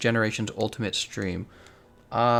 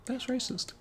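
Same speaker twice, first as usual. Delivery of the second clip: mock outrage voice; 9 dB quieter than usual. Joke reaction to chat.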